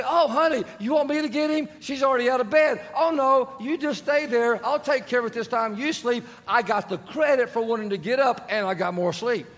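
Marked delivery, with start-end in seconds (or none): 0.0-6.2 higher, falsely eager voice to his wife; fake sweet offer. Husband to wife at night, pretending to volunteer, mock sweet. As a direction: sound oh so willing while hoping she goes. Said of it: "And I would say".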